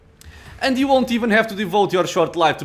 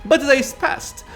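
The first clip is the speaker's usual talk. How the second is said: drawn out, higher, louder; slow and dramatic; 10 semitones higher, 5 dB louder, much slower than usual. Acted. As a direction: stretch each word.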